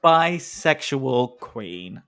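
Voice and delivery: slow, grand proclamation; proclaiming. Real, not acted. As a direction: announce it like a title. Drawn-out proclamation.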